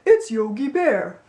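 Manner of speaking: slow, lightly voiced dopey cartoon bear; dopey Yogi Bear. Shown as a demonstration. Coach demonstrating the dopey sound, slow dopey bear voice. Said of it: "Kinda like Patrick from SpongeBob or Yogi Bear".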